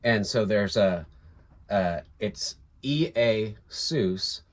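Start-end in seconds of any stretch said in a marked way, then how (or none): 2.8-4.4 "E A Sus" slowly, syllable by syllable; "E A Sus" in slow, separate pieces; Greek name sounded out. Shown as a demonstration. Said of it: "It's pronounced".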